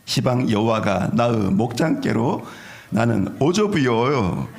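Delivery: Jeolla accent, the last words slowed and laughing; Jeolla dialect. Shown as a demonstration. Pastor doing a Jeolla-accent Psalm for the congregation, laughing. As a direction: Jeolla drawl breaking into a laugh. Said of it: "전라도 버전".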